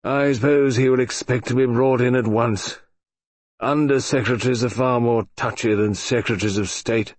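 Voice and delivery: gloomy. Acted. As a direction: sigh it out, resigned. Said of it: "said Colonel Pikeaway gloomily".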